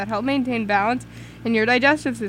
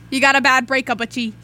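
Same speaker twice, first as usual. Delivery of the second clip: Stevie impression; 5 dB louder than usual. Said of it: "That was good Stevie impression".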